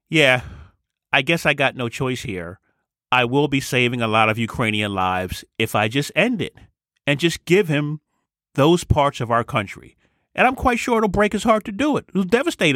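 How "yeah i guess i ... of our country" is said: a lightly voiced leader who sees no other choice; resigned Zelensky. Leader forced to give up land, lightly voiced reluctant surrender. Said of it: "Zelensky will probably have to give in and say".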